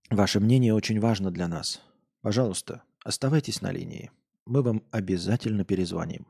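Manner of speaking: polite recorded hold message; sing-song operator announcement; customer service voice. Pretend. Mock call-center hold message.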